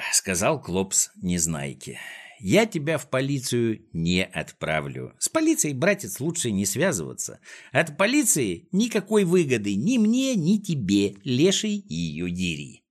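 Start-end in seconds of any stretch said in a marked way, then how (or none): 2.4-12.8 lightly voiced scheming boss, pitch leaping up; higher, wheedling character voice; mock-friendly villain. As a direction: sound confidingly chummy with your captive. Klops talks to captured Neznaika.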